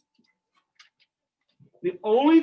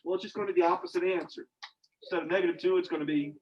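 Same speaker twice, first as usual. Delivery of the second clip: quick casual shortcut; 3 semitones lower, 5 dB quieter, faster than usual. Retold or imitated. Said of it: "most people just say".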